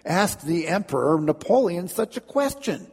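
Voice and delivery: an emperor insulted, ordering punishment; indignant command. Acted. Napoleon ordering his guards, indignant shout. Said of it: "all indignant".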